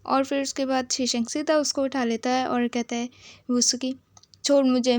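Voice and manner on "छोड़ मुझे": louder, pushing protest; mock loud protest. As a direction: demand to be put down. Lifted up, demands to be released.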